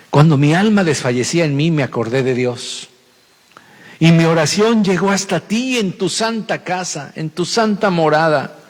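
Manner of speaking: solemn scripture reading. Acted. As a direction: read the verse with reverence. Reads scripture aloud. (lectura solemne de la Biblia)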